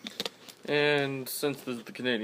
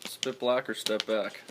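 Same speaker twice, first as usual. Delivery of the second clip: slow slogan delivery; slower than usual. Real, not acted. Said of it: "Big saying that I always use".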